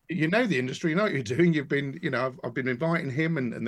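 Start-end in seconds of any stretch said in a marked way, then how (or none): 0.0-1.5 high, laughing reassurance from the editor; retold reassurance. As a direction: reassure him with a laugh in a raised voice. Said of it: "And he's like".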